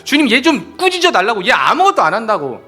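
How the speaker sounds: a touch of hammed-up indignation; mock annoyed complaint. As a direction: complain like a put-upon sister. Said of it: "열심히 했던 사람이 화가 난 거예요".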